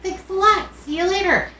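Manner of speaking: bright carefree "thanks, see you"; breezy cheerful goodbye. Retold or imitated. Leaving the checkout with a breezy goodbye. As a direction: toss off a cheery goodbye, high and light.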